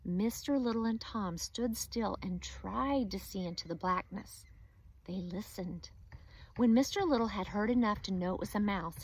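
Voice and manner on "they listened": whispered narration. A narrator's reading. Tense moment in the story.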